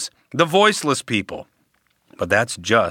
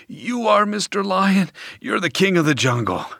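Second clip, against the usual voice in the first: squeaky, much higher frightened turtle voice; scared turtle; 6 semitones higher than usual. A narrator's reading. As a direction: pipe it up high, scared stiff. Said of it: "Scared out of his shell".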